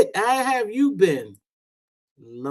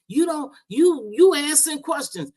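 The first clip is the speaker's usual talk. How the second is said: mimicking Diva; 10 semitones higher than usual. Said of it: "She said".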